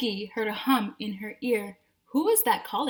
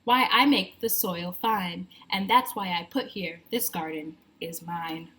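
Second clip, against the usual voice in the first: sighing worm; 3 semitones lower than usual. Acted. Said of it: "sighed the worm".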